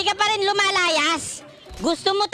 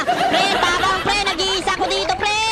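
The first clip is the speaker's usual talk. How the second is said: urgent raised shout to teammates; calling for help. Real, not acted. Gamer alone calling his friends, urgent shouting.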